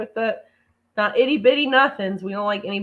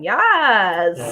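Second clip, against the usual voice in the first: masculine yes; 5 dB louder than usual. Retold or imitated. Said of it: "this guy oozing all the masculinity".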